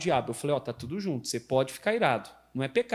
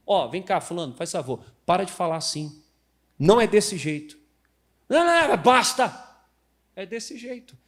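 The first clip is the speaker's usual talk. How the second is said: loud, firm scolding; stern rebuke; 2 semitones higher, 5 dB louder than usual. Shown as a demonstration. Pastor demonstrates an energetic rebuke, loud and stern. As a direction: put someone in their place. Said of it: "Há momentos na vida que demandam energia".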